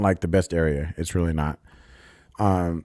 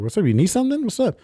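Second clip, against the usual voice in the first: much higher, tense mock challenge; edgy challenge; 14 semitones higher than usual. Challenging the man on the bike, a tense high demand. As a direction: put him on the spot, voice way up. Confronting the stranger at his window.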